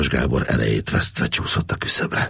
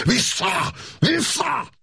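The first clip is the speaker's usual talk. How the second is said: shouted command; much slower than usual. A narrator's reading. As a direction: bark the order full force at the tiger. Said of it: "elüvöltötte magát".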